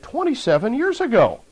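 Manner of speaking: demon voice. Retold or imitated. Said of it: "And the voice said".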